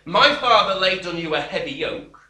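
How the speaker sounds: loud, harsh royal threat; harsh king. Acted. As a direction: snarl it down at the people like an arrogant king. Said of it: "answered the people harshly".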